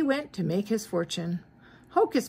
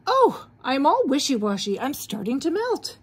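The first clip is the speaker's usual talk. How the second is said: exclaiming; 5 semitones higher, 3 dB louder than usual. Acted. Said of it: "Frosty exclaimed".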